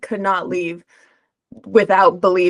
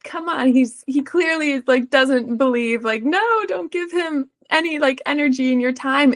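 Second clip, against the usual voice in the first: inner voice thought; 6 semitones higher than usual. Retold or imitated. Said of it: "I remember thinking".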